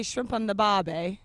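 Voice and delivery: quoted catchphrase in put-on Australian; loud, teasing Australian imitation; mock Australian accent. Host quizzing an Australian about the saying, mock Australian accent. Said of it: "why do people say".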